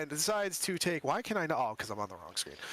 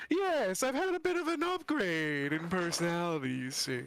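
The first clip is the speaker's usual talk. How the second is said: creepy sing-song undead voice; Lich voice. Acted. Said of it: "the voice is a side effect".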